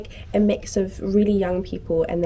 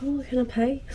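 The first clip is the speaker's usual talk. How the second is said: higher, softer, badly faked Irish accent; 4 semitones higher, 4 dB quieter than usual. Actor at the bar asking to pay, badly faked Irish accent. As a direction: attempt an Irish accent and miss. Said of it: "That was a really bad accent".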